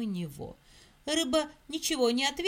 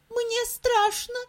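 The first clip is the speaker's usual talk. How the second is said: high squeaky scared mouse; frightened mouse squeak; 10 semitones higher, 6 dB louder than usual. Acted. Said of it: "запищал мышонок".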